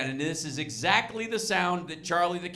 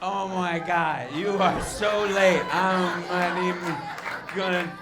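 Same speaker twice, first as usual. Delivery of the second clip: hint of a drunk; 3 semitones lower than usual. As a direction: drag the words like a mild drunk. Acts out a drunk about to puke.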